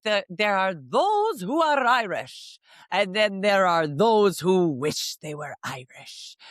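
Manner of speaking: a hint of a proud Irish mom, slow; lightly voiced mother, unhurried and knowing; mom's saying. Mom on Saint Patrick's Day, lightly voiced and slow. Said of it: "she would just be like".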